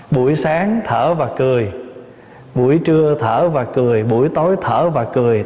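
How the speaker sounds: measured, lilting recitation with repeated cadence; rhythmic verse recitation. Acted. Teacher reciting a mindfulness song to listeners, rhythmic recitation.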